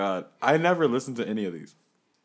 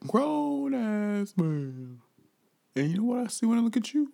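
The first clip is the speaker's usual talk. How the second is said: bouncer; 8 semitones higher than usual. Acted. Bouncer skit, high drawn voice.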